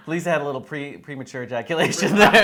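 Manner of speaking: words broken by laughter; laughing while talking. Real, not acted. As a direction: giggle through the line. Laughing at co-host's flub.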